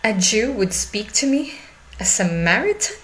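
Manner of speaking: mild disbelief, rising at the end; surprised. Acted. Samaritan woman echoing her listeners' surprise, incredulous. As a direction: question it as if astonished. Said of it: "He looked surprised".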